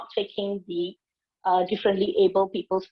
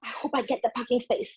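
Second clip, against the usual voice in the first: anxious hoping; 3 semitones higher, 3 dB quieter, faster than usual. Retold or imitated. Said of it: "a driver who's always hoping".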